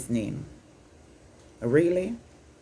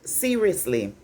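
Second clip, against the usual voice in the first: incredulous; slower than usual. Real, not acted. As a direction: pitch jumps up on "I am like", then a drawn-out "seriously". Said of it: "my mind is going like".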